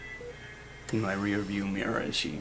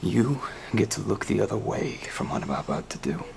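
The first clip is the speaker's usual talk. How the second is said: menacing threat; 6 dB louder than usual. Acted. Threatening phone message to Gordon.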